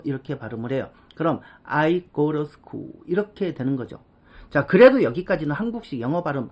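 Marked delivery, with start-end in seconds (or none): 1.6-2.9 "to" flapped into "ruh"; "I go ruh school", T turned to a liquid R; 유음화된 발음. Shown as a demonstration. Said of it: "유마시켜서 러". ("to"를 "러"로 흘려서)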